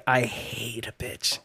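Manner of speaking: slow low deadpan; deadpan mutter. Pretend. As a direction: drop it flat and quiet. Voicing Charity, quiet slow.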